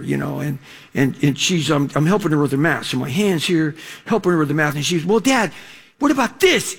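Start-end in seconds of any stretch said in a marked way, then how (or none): 5.0-6.8 put-on high, innocent girl asking; daughter's voice. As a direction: play the daughter asking a math question. Daughter voiced asking about math.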